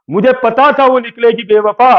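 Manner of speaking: playful couplet line, first delivery; shayari line, first take. Pretend. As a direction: build it up for the punchline. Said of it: "शायरी सुना दे क्या?".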